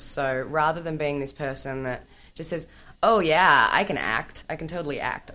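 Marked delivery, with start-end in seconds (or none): 3.0-5.3 put-on American accent. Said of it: "I did an American accent".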